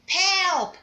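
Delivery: Pelp said high and loud, falling at the end; model word. Shown as a demonstration. Teacher drilling the class on a word, high and loud. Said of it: "Say that again".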